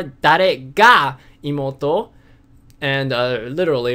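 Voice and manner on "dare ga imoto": "Dare ga imoto" slow, loud, "ga" rising; slow down and stress "ga" in the question. Shown as a demonstration. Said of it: "So therefore".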